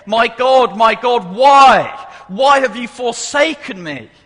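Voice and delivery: high, loud cry of agony; despairing cry. Acted. Preacher voices Jesus crying to God on the cross, despairing. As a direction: cry out as if utterly abandoned. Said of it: "This darkness leads him to despair".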